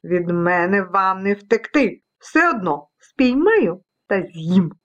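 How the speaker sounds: hammed-up villainous anger; angry vacuum cleaner. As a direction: threaten the specks, drawing words out. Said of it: "розлютився пилосос".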